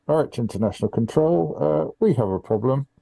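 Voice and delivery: calm pilot radio call to control. Pretend. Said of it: "I have to engage my pilot voice".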